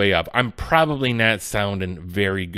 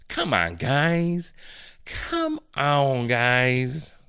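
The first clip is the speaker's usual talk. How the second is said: exasperated plea; 3 semitones higher, much slower than usual. Acted. Pleading with the game makers.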